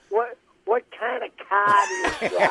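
imitating a Southie woman's Boston accent. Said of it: "it's Joanne from Southie".

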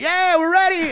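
high girly mimicry. Telling friends how the girls answered, high mock girly voice. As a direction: play the excited girls in the back seat.

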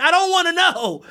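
high, loud I don't wanna know; exasperated. Real, not acted. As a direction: blurt it out fed up. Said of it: "exasperated declaration".

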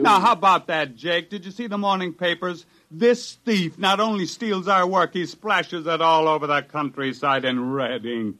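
sarcastic, heated accusation; bitter anger. Acted. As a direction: spit the words at the thief. Continues angry tirade.

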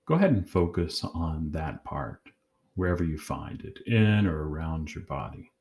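calm, measured guided-meditation voice with long pauses; unhurried meditation leader, pausing between phrases. Acted. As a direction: guide them gently inward, leaving long silences.

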